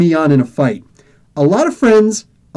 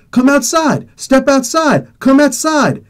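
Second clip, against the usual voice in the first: higher, insistent repeated demand; imitated punk's pushy dare; mock challenge; 6 semitones higher, slower than usual. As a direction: call someone out to fight. Acted kid challenging him to fight.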